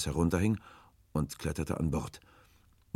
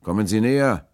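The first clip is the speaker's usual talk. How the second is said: loud, raised hail; calling out; 6 semitones higher, 12 dB louder than usual. A narrator's reading. Will beckons the hesitant rower, calling loudly. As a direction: call the boat closer, drawing out the end. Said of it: "rief Will dann".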